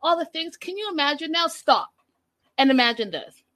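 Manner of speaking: high hyped-up cameo voice; super animated. Retold or imitated. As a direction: overdo the peppy cameo host. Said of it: "See how I'm, like, super animated?".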